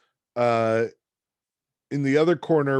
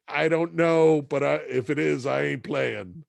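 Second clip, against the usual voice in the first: wary refusal; 4 semitones higher than usual. Retold or imitated. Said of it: "And I'm like".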